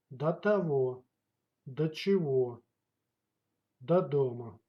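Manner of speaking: "До" said as "da" before each word; o pronounced as a. Shown as a demonstration. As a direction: turn the o of "До" into an unstressed a. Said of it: "But pronounced as да".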